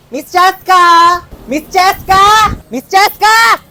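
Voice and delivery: barista calling a customer. Acted.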